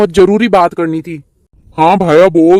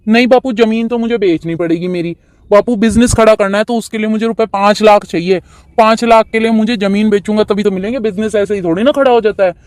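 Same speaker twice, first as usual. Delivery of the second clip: put-on stubborn young son; 3 semitones higher than usual. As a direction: play the eager, pushy son. Son voice insisting. (ज़िद्दी बेटे की ऊँची आवाज़)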